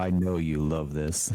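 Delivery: deep, teasing sultry voice. Pretend. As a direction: drop low and tease the listeners. Joking about their sultry voices.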